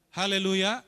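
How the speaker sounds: "Haleluya" called out loud, rising at the end; a rousing, rising "Haleluya"; loud hallelujah. Real, not acted. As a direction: lift the room with "Haleluya". Preacher repeats the praise.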